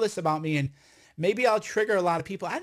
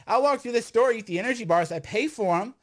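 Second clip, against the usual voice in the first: raised voice, higher and louder; talking loud; 4 semitones higher than usual. Real, not acted. Cohost says he is talking loud, raised voice. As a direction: push it out, worked up. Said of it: "No, you're talking loud".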